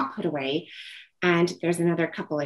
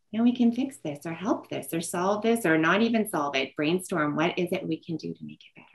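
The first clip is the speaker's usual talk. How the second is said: calm reassurance; 3 dB quieter than usual. Retold or imitated. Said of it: "And I say".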